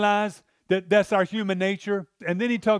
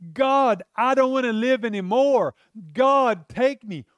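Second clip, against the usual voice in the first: desperate prayer; 3 semitones higher than usual. Retold or imitated. Preacher voicing Elijah begging God to take him, raised and pleading. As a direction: beg God to end it, voice lifted. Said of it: "He even says".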